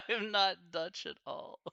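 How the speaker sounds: slow, high words through real laughter; laughing. Real, not acted. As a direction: say it while cracking up. Laughing at not being Dutch.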